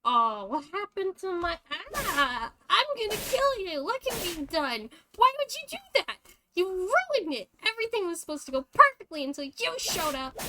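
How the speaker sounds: high, loud hysterical fury; enraged screaming. Acted. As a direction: scream blame at the one who ruined it. Wounded killer rages at intruder.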